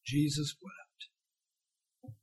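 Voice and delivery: whispered almost, very slow and soft; hushed awe, drawn out slowly. Acted. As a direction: let the two words fall quietly. Quiet reading of famous verse.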